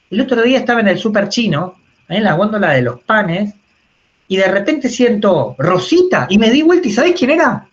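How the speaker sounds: lightly voiced grandma, rising to high excitement; a hint of an eager grandma, building up; chatty grandmother. Speaker voicing grandma repeating her story to her grandson: a hint of gushing.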